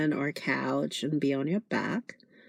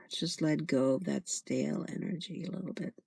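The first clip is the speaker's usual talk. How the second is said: soft release after a sigh; quiet, soothing meditation voice; guided meditation; 8 dB quieter, faster than usual. Acted. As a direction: gently coax them to let go.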